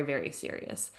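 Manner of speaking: very serious, whispered low and soft; hushed and heavy; whispered emphasis. Real, not acted. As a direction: drop to a grave whisper. Stressing how strict lockdown was.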